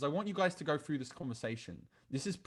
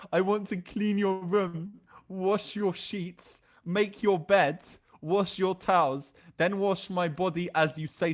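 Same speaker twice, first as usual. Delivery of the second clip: slow, loud, drawn-out mocking reading; mock dramatic read; 2 semitones higher, 6 dB louder, slower than usual. Reading her submissive text aloud in a slow, loud mocking voice. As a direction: ham up her eager message for laughs. Now look what she said.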